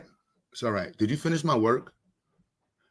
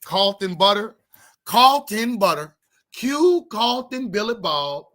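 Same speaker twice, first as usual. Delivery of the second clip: white voice; 3 semitones higher, slower than usual. Pretend. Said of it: "I need a name for my white voice".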